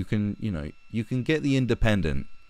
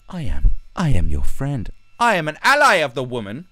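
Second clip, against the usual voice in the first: higher, sanctimonious mock voice; mock virtue-signalling boy; 7 semitones higher, 5 dB louder than usual. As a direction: put on a preening, self-righteous ally. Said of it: "little boys come along and".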